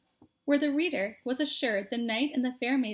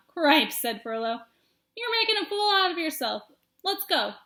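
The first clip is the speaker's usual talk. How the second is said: louder, higher impatience; exasperated; 5 semitones higher, 5 dB louder than usual. Acted. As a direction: hurry him along. Furlow exasperated.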